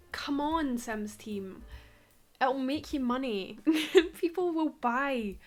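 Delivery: mildly exasperated rant with laughs; lively mock-outraged complaint; playful rant. Real, not acted. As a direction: plead your case, half-joking and indignant. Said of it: "Ranting on YouTube videos, screaming at The Sims team".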